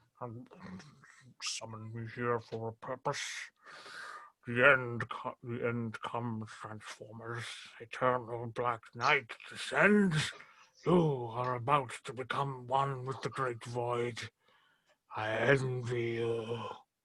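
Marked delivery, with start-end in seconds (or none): 1.4-16.6 deep, hushed cartoon voice, "envy" stretched long. Asked about his Orson Welles voice, the speaker does more: Orson Welles as Unicron impression. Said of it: "That's my that's my Orson Welles as Unicron".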